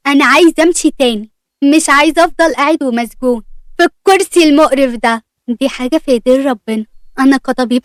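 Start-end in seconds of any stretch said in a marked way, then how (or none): 0.1-5.2 a mildly angry cut-in; angry outburst. Acted. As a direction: interrupt the doctor with controlled anger. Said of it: "مصطفى قطعه بعصبية وقال". (مقاطعة بعصبية خفيفة)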